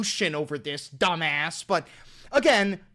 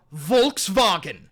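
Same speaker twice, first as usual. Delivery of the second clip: disbelief; 6 dB louder, slower than usual. Real, not acted. Incredulous at Volkswagen claim.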